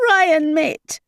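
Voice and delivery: high, urgent call across the site. A narrator's reading. Ashlyn calling Ryan over after the grim find, urgent high shout. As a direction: shout for him to come look.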